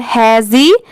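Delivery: hesitation in separate syllables; hesitation split up. Shown as a demonstration. Teacher dividing a big word for learners, hesitation split up. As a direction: break hesitation into he-zi, tay, shun. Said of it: "ऐसे ही आप divide कर लीजिएगा".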